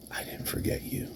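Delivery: very soft, voiceless reproach; menacing whisper. Acted. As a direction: drop to a whisper for the threat. Menacing line to his rival.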